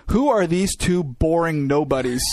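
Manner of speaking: sneering commenter. Retold or imitated. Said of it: "this guy's comment underneath it was".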